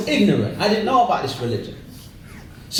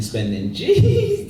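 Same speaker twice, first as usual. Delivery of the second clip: high, drawn-out squeal on G's; dazzled excitement; 6 semitones higher, much slower than usual. Acted. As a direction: stretch it out in gleeful awe. Acting out his younger dazzled self.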